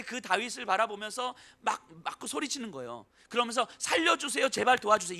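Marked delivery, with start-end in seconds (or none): 3.8-5.2 a hint of a frightened woman begging; half-hearted desperate begging; mock panicked plea. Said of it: "이렇게 외치지 않습니다".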